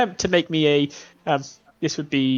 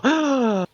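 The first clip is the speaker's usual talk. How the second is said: sharp high gasp of fright; a mother's frightened gasp at the window; fearful gasp; 10 semitones higher, 3 dB louder than usual. Acted. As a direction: gasp at the sight of a beast. Mother sees the wolf.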